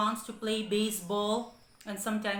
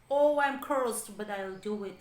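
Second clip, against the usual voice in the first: grudging scold; 4 dB louder than usual. Acted. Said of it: "scolded and pursed his lips".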